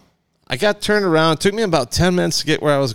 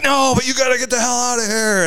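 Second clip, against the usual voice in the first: guard; 10 semitones higher than usual. Retold or imitated. Guards shooing him out.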